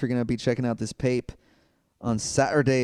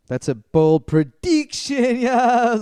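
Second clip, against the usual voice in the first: wrestler promo voice; 8 semitones higher, 5 dB louder, slower than usual. Acted. Hulk Hogan style wrestler talk.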